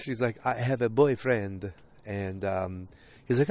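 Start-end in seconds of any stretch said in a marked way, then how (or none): 0.4-1.7 slow imitated European accent; put-on foreign accent. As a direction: turn him down slowly in a mock foreign accent. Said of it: "I'm still going with accents".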